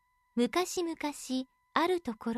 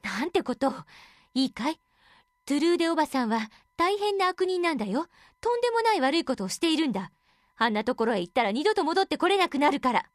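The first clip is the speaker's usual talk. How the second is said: stern warning; 5 dB louder, faster than usual. Acted. Parents warn the daughter.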